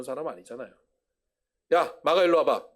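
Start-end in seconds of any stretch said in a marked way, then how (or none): 1.7-2.7 gruff call. Acted. Peter calls Mark over.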